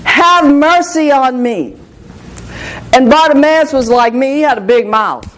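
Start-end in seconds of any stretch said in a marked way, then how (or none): 0.0-1.8 retold cry. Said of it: "Bartimaeus begins to cry out".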